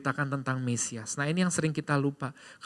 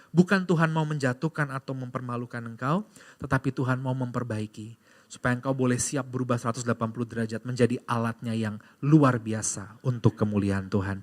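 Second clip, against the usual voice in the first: ordinary talk, nothing marked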